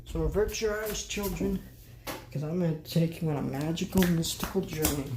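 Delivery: playfully theatrical tour-guide voice; mock-grand showman. Host leading children on a journey to the closet, mock-grand. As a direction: announce it like a mock mystical adventure.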